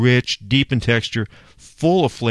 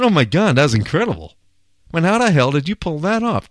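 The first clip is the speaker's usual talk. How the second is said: amazed praise; 6 semitones higher than usual. Retold or imitated. Praising Afaf's chicken.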